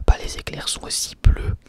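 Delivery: ordinary delivery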